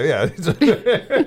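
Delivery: high squeaky goblin cackling laugh; goblin cackle. Retold or imitated. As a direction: cackle like a gleeful little goblin. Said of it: "It's my goblin impression".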